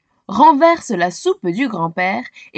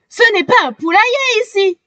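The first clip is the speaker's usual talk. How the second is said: higher, fast, angry cry; mother shouting at the chickens, fast; exclaiming mother; 9 semitones higher, faster than usual. A narrator's reading. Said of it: "s'écrie-t-elle".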